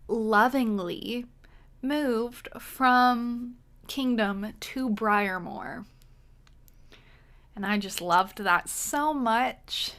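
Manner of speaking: slow, drawn-out mock affection; sarcastic. Real, not acted. Host griping about an unwanted villager moving in, sarcastic. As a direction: lay on the sarcasm, lingering on the words. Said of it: "I'm being very sarcastic".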